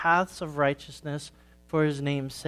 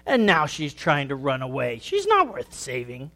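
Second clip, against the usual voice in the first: sneering. Acted. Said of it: "her shepherd sneered".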